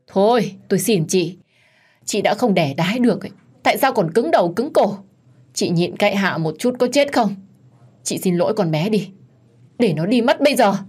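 sharp, pressing scold that rises to a snap. Acted. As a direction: berate her daughter-in-law for not giving in. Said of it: "quay sang quát tôi".

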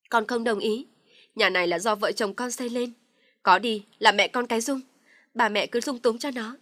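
loud, indignant refusal; defiant anger. Acted. Husband loudly refuses his father's order to move out. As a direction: stand your ground, loudly.

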